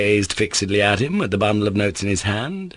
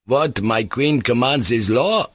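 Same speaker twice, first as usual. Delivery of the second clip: gallant pronouncement; 3 semitones higher, slower than usual. Acted. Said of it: "pronounced the Pole".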